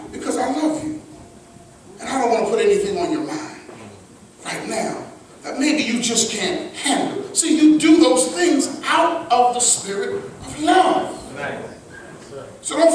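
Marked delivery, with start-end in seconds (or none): 0.1-7.2 soft, lower caring questions to a partner; tender concern. Shown as a demonstration. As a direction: ask gently like you truly care. Loving reply to wife.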